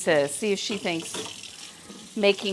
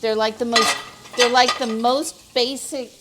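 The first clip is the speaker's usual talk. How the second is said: emphatic; 5 semitones higher, 7 dB louder than usual. Real, not acted. Emphatic insistence on tortillas.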